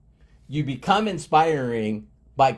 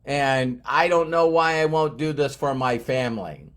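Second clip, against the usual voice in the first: mock self-pity. Mocking the listener who whines about lacking motivation, hammed-up self-pity. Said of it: "next time you're saying".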